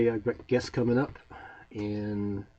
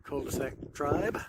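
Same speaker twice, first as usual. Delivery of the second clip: wind on mic; 4 semitones higher, 3 dB louder than usual. Real, not acted. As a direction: wind gusting over a phone mic. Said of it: "Excuse the wind noise".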